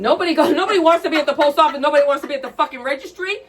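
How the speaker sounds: heated rant at full speed. Real, not acted. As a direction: hammer the rant home. Ranting about public service jobs.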